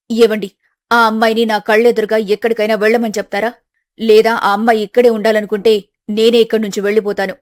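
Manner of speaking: angry mother. Acted. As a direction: throw down an ultimatum. Mother rejects daughter angrily.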